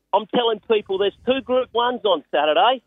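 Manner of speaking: can't contain the excitement about his horse; thrilled. Real, not acted. Telling the host about his horse in the Group One, thrilled and high. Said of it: "I can hear it in your voice".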